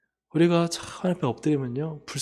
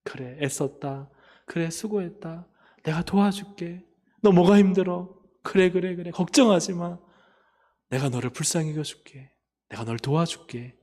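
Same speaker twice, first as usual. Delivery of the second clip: tender comfort; 3 semitones higher than usual. Retold or imitated. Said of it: "하나님이 나를 불쌍히 여기시는 거예요".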